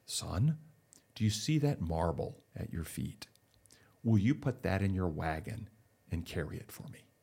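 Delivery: lightly voiced deep voice of God; a hint of a low, measured voice from above. God asks the man to carry a marble, lightly deepened voice. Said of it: "you hear the deep voice go".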